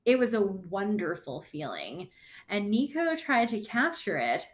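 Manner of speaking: lively storybook read-aloud; reading to children. Acted. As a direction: read the story to the class with bounce. Reads the picture book aloud.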